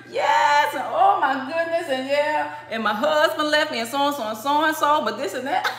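high, giggly telling of her troubles; laughing through it. Shown as a demonstration. Laughing to Eshu about a husband who left, giggly. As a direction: laugh while listing what went wrong. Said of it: "you start laughing".

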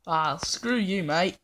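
a lightly faked British accent; hammed-up British grumble at the game; bad British accent. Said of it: "horrible British impersonator".

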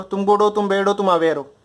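"तुम गुड हो, तुम बैड हो" held up, "तुम अवेयर हो" dropping to close; rhythm drill. Shown as a demonstration. Teacher asking all students to say it, rhythm drill. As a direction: lead the class in a rhythmic recitation. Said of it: "rhythm पकड़ो".

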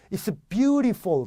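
it's beautiful with Korean-clear "byu-ree-fol"; Korean accent. Shown as a demonstration. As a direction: give away a Korean accent through full vowels. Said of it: "한국 사람인 거 티나는 거예요".

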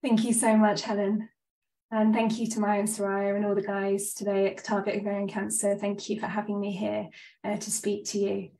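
blocked nose, slightly breathless; talking through a stuffy chest cold; stuffed up. Real, not acted. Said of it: "sorry if I sound a little bit stuffed up or a bit breathless".

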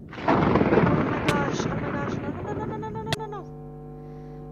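long drawn-out despairing cry; real anguished wail. Real, not acted. Gamer wailing over losing all his items.

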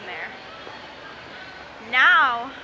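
lips on drinking straw; speaking while sipping drink; talking around a straw. Real, not acted. Seen 0: Straw held between lips from 2.0s while she keeps talking.

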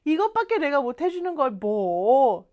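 lightly acted brush-off; modest downplaying. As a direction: shrug off the favour, stretching the end. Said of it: "이런 느낌입니다".

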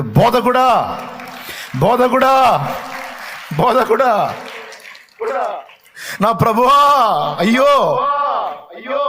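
high, loud, impassioned cries; crying out. Acted. Mary recognises her risen Lord, crying out loud and high. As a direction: cry it out again and again, pitched high. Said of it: "ఒక్క కేక వేసింది".

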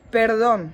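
"Perdón" said as a Spanish model word; Spanish pronunciation. Shown as a demonstration. Teacher showing learners how "Perdón" is pronounced, Spanish pronunciation. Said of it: "Wymówimy ten wyraz w następujący sposób".

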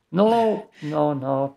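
sharp high panicked cry. Real, not acted. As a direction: yelp it out in panic. Enemy attacking in horror game.

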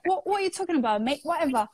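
put-on lightly done London accent, teasing; mock London accent. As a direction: ham up a cockney London twang. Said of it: "This was my accent when I first learned English".

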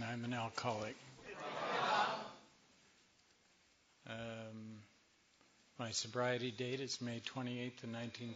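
slightly hoarse voice; a little rough, voice fading. Real, not acted. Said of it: "I'm a little hoarse".

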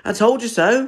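high, loud bark of a line. A narrator's reading. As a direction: snap it out, the dog proven right. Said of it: "barked Bob".

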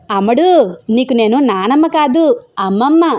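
old granny correcting a girl, lightly played; lightly voiced grandmother; lightly voiced toothless granny. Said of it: "బోసి నోటితో పెద్ద మొహం చేసుకుని".

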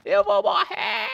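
slow, high, loud wail; panicking scream. Pretend. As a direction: shriek it in hammed-up despair. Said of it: "eu tava zoando só".

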